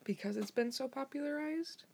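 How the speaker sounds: hushed unvoiced whisper. Real, not acted. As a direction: breathe it without voice. Whispers during recording.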